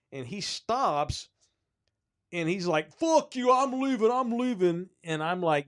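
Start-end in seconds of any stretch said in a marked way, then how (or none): 2.9-4.9 high, loud mock tantrum; worked-up, high-pitched cursing; imitated angry outburst. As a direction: imitate an irate old man storming off. Old man storming out, retold.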